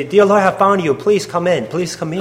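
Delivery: high, pleading retold prayer, settling at the end; urgent prayer. Woman inviting the Lord into her heart, urgent plea. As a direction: beg the Lord in, acted out.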